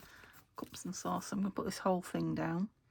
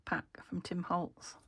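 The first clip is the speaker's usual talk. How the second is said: short of breath while talking. Real, not acted. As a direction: talk as if winded. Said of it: "I keep running out of breath while I'm talking".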